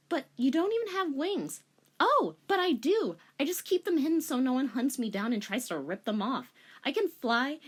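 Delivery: put-on high, breathless girlish confession; ditzy angel girl; giddy girl. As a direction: gush the secret. Korra confiding secret.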